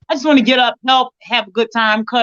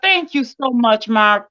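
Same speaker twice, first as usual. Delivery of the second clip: choked up; much slower than usual. Real, not acted. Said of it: "Now I'm just about to cry".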